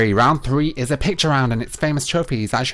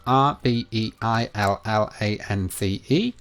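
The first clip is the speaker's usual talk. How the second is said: spelling it out. Shown as a demonstration. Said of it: "is spelt".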